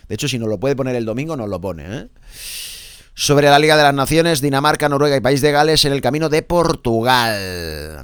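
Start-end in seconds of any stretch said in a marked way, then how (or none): 3.1-8.0 punchy radio sports bulletin; lifted, emphatic press-review announcer; sports headline read. Acted. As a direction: project the headlines like a sports presenter.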